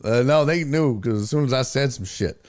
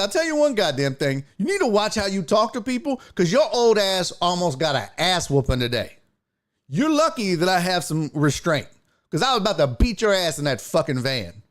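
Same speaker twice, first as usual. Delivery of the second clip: raised-pitch retold dressing-down; angry scolding; 5 semitones higher than usual. Passenger scolds driver for his talk, angry warning. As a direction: lecture him with a threat underneath.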